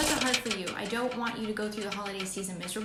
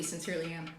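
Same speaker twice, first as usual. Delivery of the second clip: sincere; 5 semitones lower, 6 dB quieter, faster than usual. Real, not acted. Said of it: "I truly".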